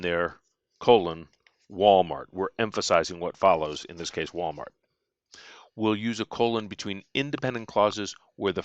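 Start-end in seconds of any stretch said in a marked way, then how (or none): 3.9-4.7 whispered aside. Real, not acted.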